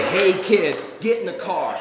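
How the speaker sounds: loud imitation of a stranger's summons; acted-out call from a car window. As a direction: holler it as a warning example. Cop imitates stranger calling from car.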